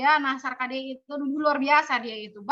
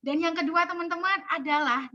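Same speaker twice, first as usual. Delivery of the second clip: "kedua" diangkat, nada hidup bergelombang; naik turun; 4 semitones higher than usual. Shown as a demonstration. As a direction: mainkan nada naik turun sampai "adalah". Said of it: "naik turun, jangan monoton ya". (penyampaian dinamis, tidak monoton)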